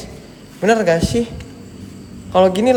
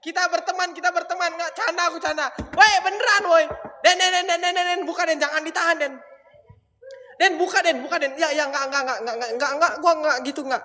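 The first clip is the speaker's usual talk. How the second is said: panicked pleading; 4 semitones higher, 5 dB quieter than usual. Real, not acted. Panicked pleading with ghost, Den.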